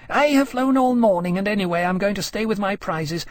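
high, wilful dragon voice; self-satisfied she-dragon. Acted. She-dragon refuses to leave her prizes, wilful. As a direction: insist in a high, proud voice. Iskierka voiced, arguing with Temeraire.

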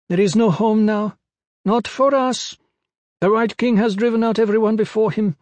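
very high, insistent character voice; high-pitched pygmy woman. A narrator's reading. Pygmy woman telling Kip of her lost home, high-pitched. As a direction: plead the people's case in a high voice. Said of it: "her voice high-pitched".

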